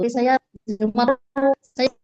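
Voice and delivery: choppy connection. Real, not acted. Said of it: "suaranya putus-putus ya".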